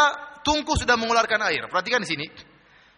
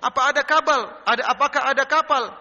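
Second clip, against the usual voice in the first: raised-pitch, scoffing question; mocking question; 6 semitones higher, 3 dB louder than usual. Passers-by ridicule Noah about a ship on dry land, mocking. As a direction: imitate a heckler ridiculing with a pointed question. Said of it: "Ada lagi ngejek".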